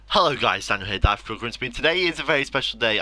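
bright, upbeat channel intro; mock YouTube intro. YouTuber opening the video to his viewers, upbeat intro. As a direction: greet viewers like the start of a video. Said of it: "I don't know why I'm doing the intro".

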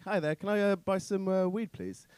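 prim, polite posh English; exaggerated posh politeness on the phone. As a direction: ask for weed like a polite toff. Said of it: "an affliction known as posh voice".

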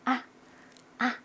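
hushed, very short "아"; light neutral tone. Shown as a demonstration. Teacher playing it feeble for the neutral tone, hushed. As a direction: let out a faint little "아". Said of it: "경성은 엄살 피워".

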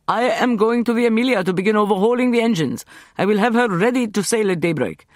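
high, loud firm resolve; Selim's voice. A narrator's reading. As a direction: announce it with resolve.

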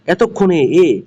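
এতক্ষণে with the last এ echoed on its own; final vowel isolated. Shown as a demonstration. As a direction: demonstrate the open ending of এতক্ষণে. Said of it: "এ উচ্চারণ হয়েছে".

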